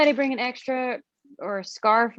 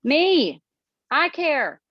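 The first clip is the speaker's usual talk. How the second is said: emphatic protest; 7 semitones higher, 5 dB louder, much slower than usual. Acted. Betsy insists she cares.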